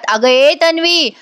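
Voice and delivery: mock yelling Tanvi to get her attention; calling out loudly. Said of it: "आता या जोरात ओरडतात". (मोठ्याने हाक मारणं)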